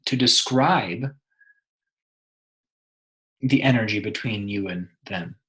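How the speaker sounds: measured meditation guide, long pauses between phrases; guided meditation. Acted. Meditation guide helping a listener connect with someone, guided meditation. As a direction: lead them inward, leaving room after each instruction.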